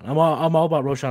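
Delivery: usual speaking voice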